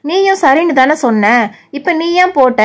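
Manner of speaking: lightly voiced complaining teen sister; sulky younger sister. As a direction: whine at your big sister about the dress. Bhuvana argues again.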